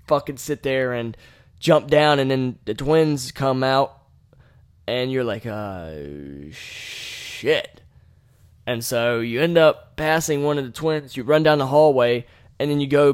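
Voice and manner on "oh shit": low, unvoiced whisper of dread; scared whisper. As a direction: breathe it out in a hushed, spooked whisper. Twins appear in the game.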